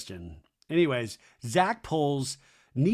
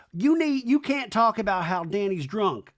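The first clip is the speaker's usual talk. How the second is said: mock quarrelling; 7 semitones higher, 3 dB louder than usual. Acted quarrel, Brittany's voice.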